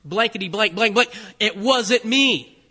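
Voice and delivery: mock cursing, punched out; acted heated protest; exasperated denial. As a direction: deny it forcefully, word by word. Peter cursing as he denies.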